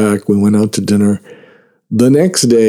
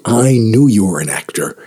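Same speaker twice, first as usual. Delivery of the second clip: whisper. Retold or imitated. Retold whispered aside to surfer.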